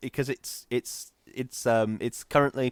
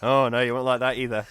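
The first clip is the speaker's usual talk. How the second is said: put-on Scottish news accent; 4 dB louder than usual. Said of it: "a Scottish accent 'cause he's a skilled performer".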